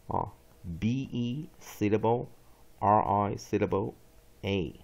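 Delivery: measured classroom recitation, drawn-out words with pauses; deliberate spelling-out for students; syllable drill. Shown as a demonstration.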